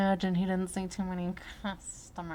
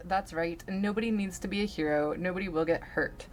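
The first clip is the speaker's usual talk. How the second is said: calm voice. Acted. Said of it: "in a very calm voice".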